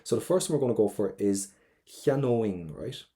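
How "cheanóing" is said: cheanóing ending in an "ing" sound. Shown as a demonstration. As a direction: say cheanóing with a clear ING at the end. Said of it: "we're gonna get an I N G sound at the end".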